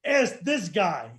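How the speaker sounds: slow, laughing as he tells it; can barely get it out for laughing; laughing through it. Real, not acted. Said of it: "laughing while telling".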